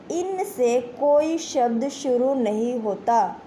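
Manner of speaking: slow, deliberate 'इनसे कोई शब्द शुरू नहीं होता', word by word; emphatic rule. Shown as a demonstration. Teacher stressing the important rule. ('इनसे कोई शब्द शुरू नहीं होता' को धीरे, एक-एक शब्द पर ज़ोर देकर)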